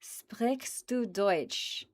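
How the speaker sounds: slow whispered German question. Acted. Reading a viewer's German question to chat, whispered. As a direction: breathe the question out slowly.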